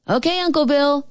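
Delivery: high-pitched, eager-to-answer call. A narrator's reading. Cousin calls back to his uncle, high calling voice. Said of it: "my cousin called".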